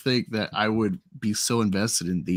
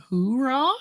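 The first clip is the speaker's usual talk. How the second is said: Ron Burgundy; 13 semitones higher than usual. Retold or imitated. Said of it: "do like Ron Burgundy".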